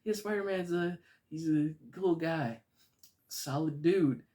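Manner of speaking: very high, loud forced laughter in a put-on voice; nervous fake laugh.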